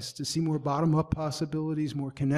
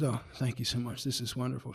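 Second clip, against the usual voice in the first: polite acceptance; 4 semitones lower, 6 dB quieter than usual. Retold or imitated. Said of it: "she got up there and she goes".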